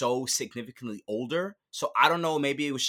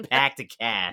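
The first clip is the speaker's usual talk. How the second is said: mock Boston accent; 3 dB louder than usual. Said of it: "she should have been like".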